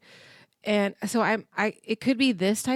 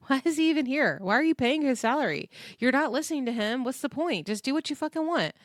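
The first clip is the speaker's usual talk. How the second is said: higher, fast, exasperated disbelief; exasperated rant; 5 semitones higher, faster than usual. Real, not acted. Fed up with the star ignoring her staff, higher fast exasperation. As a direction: rattle off the questions in frustration. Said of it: "it's so frustrating".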